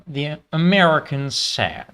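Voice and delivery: first rough stab at a Southern US accent; attempted American Southern accent. Shown as a demonstration. Streamer testing accents for the challenge, rough American Southern accent. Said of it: "No, that's, hold on".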